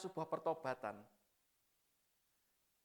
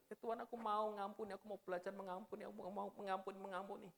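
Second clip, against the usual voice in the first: softer, mildly tearful pleading; retold weeping prayer; 3 semitones higher, 4 dB quieter than usual. Sobbing student praying to forgive his father, mild tearful plea. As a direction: repeat the vow as if through tears, lightly. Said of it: "Saya nangis sejadinya. Saya bilang".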